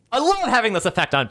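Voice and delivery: high, loud, delighted; gleeful villain glee. Real, not acted. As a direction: relish scaring people. Gleeful boast.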